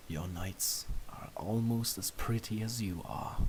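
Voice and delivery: soft low shy mumble. A narrator's reading. You complimenting Luna's nights, in a soft mumble. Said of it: "you mumble".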